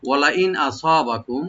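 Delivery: Quranic phrase recited slowly with care; slow recitation. Shown as a demonstration. Teacher reciting the verse slowly for students. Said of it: "right দিয়ে বলবো".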